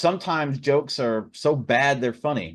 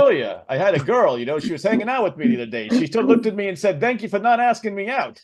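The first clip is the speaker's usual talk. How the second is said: Rodney Dangerfield impression; 5 semitones higher than usual. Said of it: "the Rodney Dangerfield thing".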